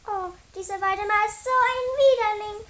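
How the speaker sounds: high, indignant outcry; exclaiming. A narrator's reading. Mathilde complains about the hated boss, exclaiming. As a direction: cry out in high disgust. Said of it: "rief Mathilde".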